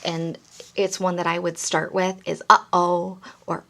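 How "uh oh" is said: playful uh-oh. Shown as a demonstration. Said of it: "A great word through the whole story".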